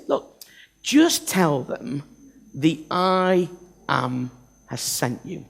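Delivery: low-key reassuring God; calm God. Acted. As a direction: speak it gently and with settled authority. God's calm answer voiced.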